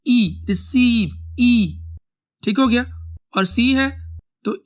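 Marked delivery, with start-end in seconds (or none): 0.1-1.4 slow, drawn-out रिसीव with a long ई; slow spelling demo. Shown as a demonstration. Teacher spells रिसीव slowly for students, drawn out. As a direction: stretch the ई in रिसीव for the class. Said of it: "इसका sound ई में है".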